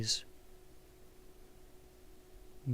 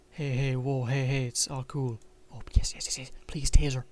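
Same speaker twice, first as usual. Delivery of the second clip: frantic, louder pleading; panicked pleading; 4 dB louder than usual. Acted. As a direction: plead in a rush of fear. Panicked man pleads with someone.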